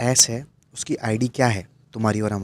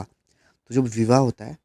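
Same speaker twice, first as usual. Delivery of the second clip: slow, drawn out; slower than usual. Shown as a demonstration. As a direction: slowly lay out जब विवाह होता है. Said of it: "विवाह जैसा sound कर रहा है ना". (धीरे धीरे, समझाते हुए)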